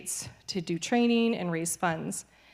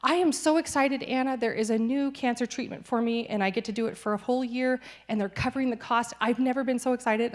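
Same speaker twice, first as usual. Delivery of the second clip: higher, bubbly pastor's excitement; excited pastor; 4 semitones higher than usual. Retold or imitated. Pastor telling her about his treatment, higher excitement. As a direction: share the good news like it's a gift. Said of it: "He came up to me and he said".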